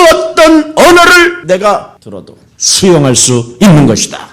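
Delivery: building from firm declaration to high, loud shout; full-force preaching. Real, not acted. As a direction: proclaim it loudly, pitch climbing. (점점 높고 크게 외치는 설교)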